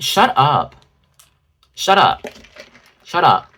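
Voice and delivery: mimicking a fake-modest brush-off; mock bashful. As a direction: swat the compliment away. Mock embarrassed fan deflection.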